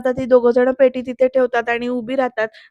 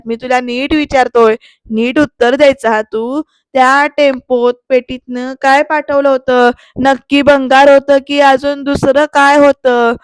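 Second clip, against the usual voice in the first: louder, deliberate acted grilling; stern interrogation; 6 dB louder than usual. Shirke grabs Vijay by the collar, stern questioning. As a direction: press each question like an impatient interrogator. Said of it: "त्या विजयला नीट असं गळपटीला धरतात आणि म्हणतात".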